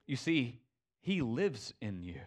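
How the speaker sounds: lightly voiced tender sage; Rafiki's wisdom. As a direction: lay it down gently like a wise elder. Rafiki's statement, quoted.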